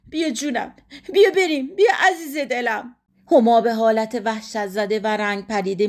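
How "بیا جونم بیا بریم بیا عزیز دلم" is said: urgent tenderness. A narrator's reading. Mother calls child to leave.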